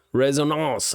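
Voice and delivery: Resonance said the French way, rez-oh-NAHNS; French accent. Pretend. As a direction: Resonance with a nasal French ending. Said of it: "I started using a French accent".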